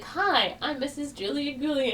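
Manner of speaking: high, imitated tearful bride; a retold sob, lightly acted; mock sobbing. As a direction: play her crying into the mirror, voice pitched high. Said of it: "And she's just sobbing".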